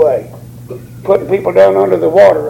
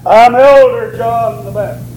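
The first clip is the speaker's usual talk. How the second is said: lightly pompous self-introduction, leaning on Elder; hint of a self-important elder; mock titled introduction; 3 semitones higher than usual. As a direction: announce yourself with a mock church title. Mock titled answer he never gave.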